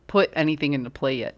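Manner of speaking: talking through hiccups; words broken by a hiccup. Real, not acted. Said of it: "I have the hiccups".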